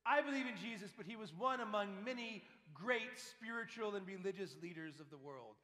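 lightly voiced know-it-all; imitating a casual skeptic. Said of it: "people ... like this".

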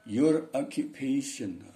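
"Your occupation" spoken slowly and carefully, every syllable clear; teacher models "Your occupation" slowly for students; pronunciation demo. Shown as a demonstration. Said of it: "Bacanya gimana kalau kita nggak biasa?".

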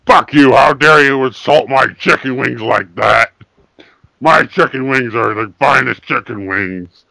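furious yelling, mock outrage; hammed-up indignant yell; angry shout. Fake outrage at hotline operator.

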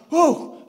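loud, high whoop of breath; high, shaken "whew"; shaken exhale. Retold or imitated. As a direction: blow out the shock loudly. Acts out relief after panic.

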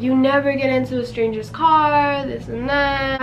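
imitating a scolding older brother; mildly stern lecture, retold. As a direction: lightly reenact a telling-off. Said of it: "he was scolding me".

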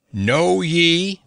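formal, ringing decree; solemn proclamation. A narrator's reading. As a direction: proclaim it like a herald. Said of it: "began the scroll".

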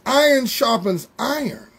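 slow, deliberate, letting each word land. Shown as a demonstration. Pastor slows down so the congregation absorbs it, slow and deliberate. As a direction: draw it out so it sinks in. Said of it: "I'm slowing down 'cause I want this to sink in".

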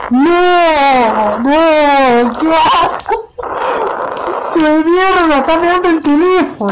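shout of disgust. Real, not acted. Streamer watching a gross video, shouting in disgust. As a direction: yell in real revulsion.

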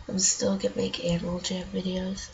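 stuffy nose, morning voice; blocked nose. Real, not acted. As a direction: talk through a blocked nose. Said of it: "my nose is all stuffed up".

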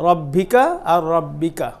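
রব্বিকা said slowly twice, the second with a held double ব; slow side-by-side রব্বিকা and রব্বিকা; contrast shown. Shown as a demonstration. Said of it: "পার্থক্যটা দেখেন".

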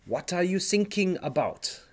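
light mock German accent, quoting the coast guard; a hint of German accent on "What are you thinking about?". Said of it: "in a German accent".

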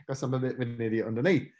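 laughing. Real, not acted.

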